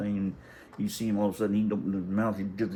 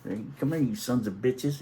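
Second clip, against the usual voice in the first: mock hollering cussing; 4 semitones higher than usual. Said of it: "cussing and hollering and hooting at them".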